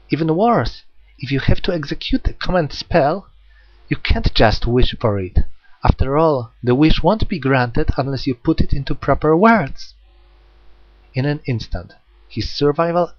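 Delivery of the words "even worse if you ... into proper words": higher, louder sweet menace; menacing girl voice. Acted. Jack cornering Hyoma, sweetly menacing girl. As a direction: lay out his weakness playfully. Jack's voice.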